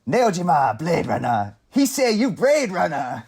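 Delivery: put-on slow broken-English accent; movie accent imitation. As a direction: imitate the film's street accent. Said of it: "I love the accents in this movie".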